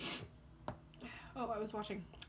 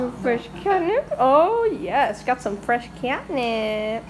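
talking to a cat; 9 dB louder, much slower than usual. Real, not acted. Offering catnip to her cat.

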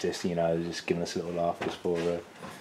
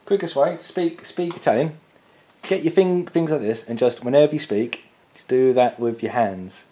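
higher, louder hammed-up Italian speech; lightly hammed-up Italian gestures talk; mock Italian speaker; 4 semitones higher, 5 dB louder than usual. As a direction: play an Italian talking with his hands, loud and animated. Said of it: "That is how Italians speak".

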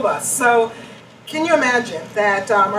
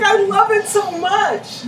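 mock volunteer; 12 semitones higher, 5 dB louder, slower than usual. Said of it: "she was like".

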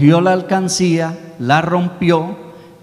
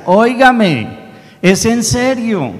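put-on pleading little boy; 8 semitones higher, 3 dB louder than usual. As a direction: beg the statue in earnest, like a small boy. Boy insisting to the statue.

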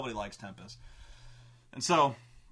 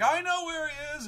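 high, louder eager call; eager crowd; 5 dB louder than usual. Retold or imitated. Crowd rushing to claim the reward, eager high call. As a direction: blurt it out greedy for gold. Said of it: "And so everyone's like".

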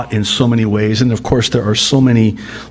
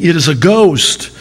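high, loud frightened cry of the disciples; 6 semitones higher, 3 dB louder than usual. Acted. Preacher voicing terrified disciples, higher and louder. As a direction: cry out like scared men seeing a ghost.

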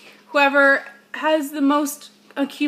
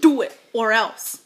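menacing whisper. Pretend. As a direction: whisper a mock threat. Mock threatening whisper.

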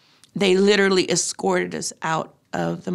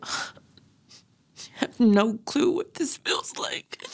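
slow, hushed whisper; 4 semitones higher, 3 dB quieter, much slower than usual. Retold or imitated. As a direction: breathe it out slowly and helplessly. Stewardess's helpless reaction.

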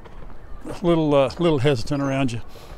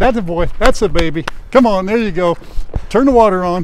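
cheering; 4 semitones higher, 6 dB louder than usual. Real, not acted. Cheering on a dancer.

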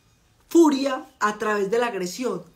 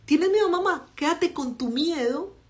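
high, slow mock of son's answer; a light jab back at mom; lightly voiced teen son, higher; imitating son; 6 semitones higher than usual. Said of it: "que Santiago me dijera eso".

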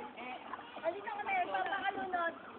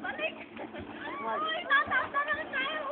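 high calling shout; 9 semitones higher than usual. Real, not acted. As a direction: call them back from afar. Calling out to others.

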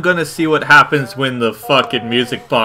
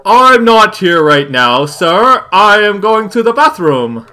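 nervous pleading; 5 semitones higher, 4 dB louder than usual. Real, not acted. Addressing monster from bathroom stall.

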